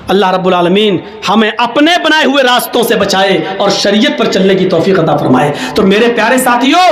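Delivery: ordinary talk, nothing marked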